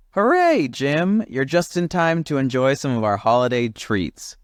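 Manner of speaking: high, cheery croaky frog chorus; croaking frogs. Acted. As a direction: greet him like jolly frogs. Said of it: "croaked the frogs".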